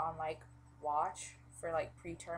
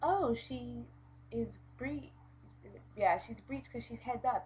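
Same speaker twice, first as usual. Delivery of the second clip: mimicking the midwife; 5 semitones higher, 3 dB louder than usual. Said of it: "she was like".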